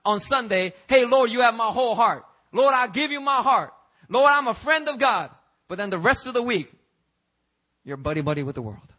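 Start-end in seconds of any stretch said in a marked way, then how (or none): 0.9-5.3 louder, higher, hammed-up churchgoer praying; loud mock devotion, a bit too sweet to be true; mock pious prayer. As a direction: overplay a showy Sunday prayer to God. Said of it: "you're trying to tell God on Sunday".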